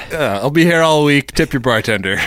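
brash vaudeville comic. Pretend. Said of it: "you are a delight".

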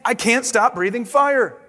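a father in a fire panic; panicked. Acted. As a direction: dragon father who can't stop the flames. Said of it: "Crispin's father panicked".

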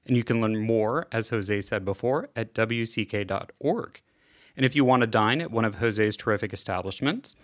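scripted credits read; measured announcer-style sign-off; podcast outro read. Real, not acted. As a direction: read out the show's plugs and credits.

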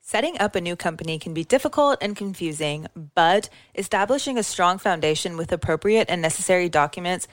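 measured sponsor read. Acted. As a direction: read it like a scripted podcast ad. Reads a sponsor ad.

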